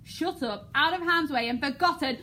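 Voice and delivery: building to a loud angry roar; furious Creon. Shown as a demonstration. King raging at the niece he condemns, building to a shout. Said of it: "imagine almost banging his fist".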